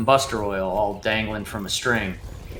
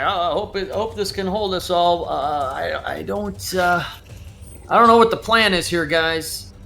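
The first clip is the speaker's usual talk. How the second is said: higher, anxious voice clinging on; nervous Rictavio; 6 semitones higher than usual. Acted. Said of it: "and he's like".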